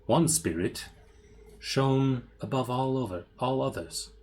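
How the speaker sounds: dramatic reading. Acted. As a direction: read it like an old curse. Continues journal reading.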